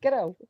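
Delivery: put-on "Ghetto" with a quick tapped t, standing in for Scottish "girl"; two light syllables on "Ghetto", tongue tapping the middle; Scottish "girl" trick. Shown as a demonstration. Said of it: "instead of saying girl".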